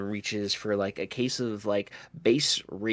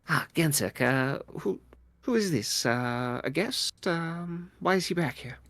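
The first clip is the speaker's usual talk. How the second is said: higher, puzzled voice of a dragonkin jeweler; jeweler Edmund; 7 semitones higher than usual. Acted. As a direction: ask who the stranger is, rising in pitch. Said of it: "it looks at you and goes".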